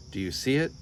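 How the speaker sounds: cried out. Acted. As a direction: sell the trick with excitement. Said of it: "cried Borreguita".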